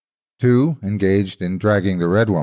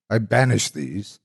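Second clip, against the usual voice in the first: mock exorcism prayer; 2 semitones higher than usual. A narrator's reading. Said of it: "began shouting down at us what sounded like a prayer".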